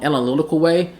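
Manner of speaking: normal talking voice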